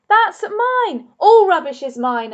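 high, loud possessive yell, half-strangled; furious shout. Acted. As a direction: screech his claim after the dog. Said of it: "Ernest shouted".

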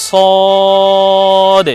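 সদ with vowel stretched on one note; a long, level সদ ending in d; distinct saad. Shown as a demonstration. Teacher pronounces the second letter, long held সদ. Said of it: "এ বর্ণের উচ্চারণ হলো".

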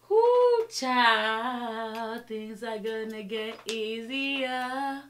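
sarcastic, fed up with it all; exasperated sarcasm. Real, not acted. Exasperated aside.

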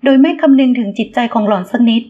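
ordinary delivery

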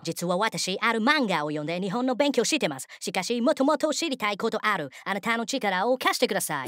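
lightly voiced foreigner speaking careful Japanese; earnest foreign tourist. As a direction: play a solemn tourist asking for help.

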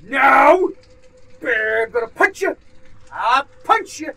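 loud and high, yelling threats at the monster; panicked threats. Real, not acted. Player yelling at a creature, loud panicked threats. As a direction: scare it off with shouted threats.

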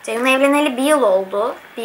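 eating while talking; slightly food in mouth; talking between bites. Real, not acted. Seen 0: Fork near mouth at start, then cutting food while talking; bite just before.

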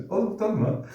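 high sing-song voice to a dog; pet talk. Real, not acted. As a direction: coo at the dog. Talking to the dog. (köpeğe sevecen ince ses)

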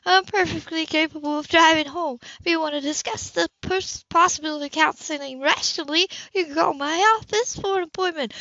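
coldly professional; Anna, icy. A narrator's reading. Anna dismisses Cam's worry, icily formal.

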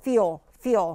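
"feel" as a short "fyo"; shortened glide. Shown as a demonstration. Teacher showing it should be shorter, "feel" as a short "fyo". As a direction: say "feel" briefly as "fyo", gliding into a w. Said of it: "เหมือน feel แต่แบบสั้นๆหน่อย".

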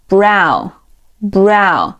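"brow" drawn out as one slow syllable; model pronunciation. Shown as a demonstration. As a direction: say "brow" slowly, pausing between repeats. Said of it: "后一个词读作". (慢速示范brow的读音)

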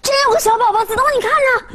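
very high, excited exclamation; shocked discovery. Acted. Telling friends there really is a baby, shocked. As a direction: call out in high-pitched amazement.

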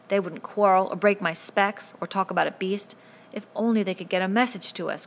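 desperate cry. Acted. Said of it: "cried Ralph desperately".

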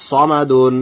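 সমাদুন drawn out with rounded "saw" first; thick স, then long "maa" in সমাদুন; heavy pronunciation. Shown as a demonstration. Teacher repeating the model word, heavy rounded start on সমাদুন. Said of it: "এখানে মোটা করে উচ্চারণ করতে হবে".

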